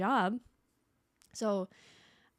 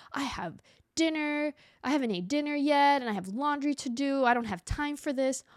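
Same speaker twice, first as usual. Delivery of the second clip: higher, slowed, mock-exasperated rant; ranting complaint; 6 semitones higher, 5 dB louder than usual. Rude customer ranting at the deli clerk, higher and exasperated. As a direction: imitate her huffy complaining. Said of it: "she's going off about".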